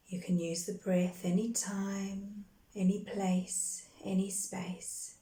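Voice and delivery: calm, measured meditation guide with long pauses between phrases; guided meditation. Real, not acted. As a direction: guide them gently into breath and grounding, unhurried. Leads a guided grounding meditation.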